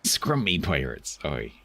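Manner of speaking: put-on slow West Country pirate accent, falling away on "oi"; drawn-out Somerset pirate talk. Streamer joking about scrumpy pirates, Somerset accent. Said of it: "of pirate talking".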